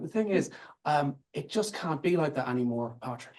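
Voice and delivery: lightly imitated posh establishment English accent; a hint of a very nice, very establishment English accent. Senior civil servant telling Patrick, in a light establishment English accent. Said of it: "a very establishment English accent".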